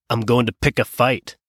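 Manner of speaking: put-on half-hearted Scottish accent; attempted Scottish accent. William Wallace answering his friends, in a mild attempted Scottish accent. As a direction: have a rough go at a Scottish accent. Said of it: "my best attempt at a Scottish accent".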